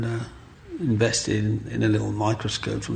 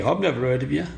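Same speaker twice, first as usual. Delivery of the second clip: sarcastic; 3 semitones higher than usual. Retold or imitated. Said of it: "he went sarcastically".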